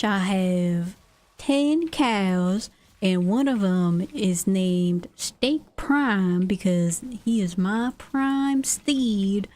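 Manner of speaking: lightly voiced swaggering cowboy. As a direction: drawl it like a proud rancher. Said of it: "when I do the cowboy voice".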